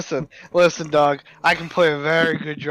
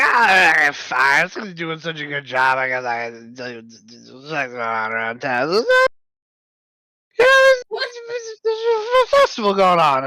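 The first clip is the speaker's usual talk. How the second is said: put-on rambling drunk tavern keeper. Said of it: "did you just drunk hiccup".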